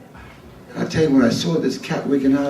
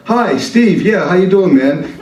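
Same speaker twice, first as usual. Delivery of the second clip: fake phone greeting; 6 semitones higher, 4 dB louder than usual. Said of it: "I said".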